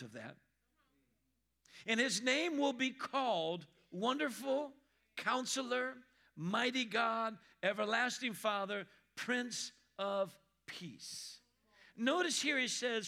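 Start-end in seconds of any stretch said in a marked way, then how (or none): 1.9-11.4 scripture reading. Acted.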